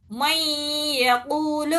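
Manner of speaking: man yaqool read slowly in Quranic recitation; recited demo. Shown as a demonstration. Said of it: "Quran reading demo".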